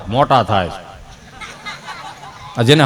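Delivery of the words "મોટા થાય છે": put-on low, slow, dry old man's answer; deadpan old man. A grandpa answering a question about his sons with a dry, low, slow line. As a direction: drop it flat and slow like a sly grandpa.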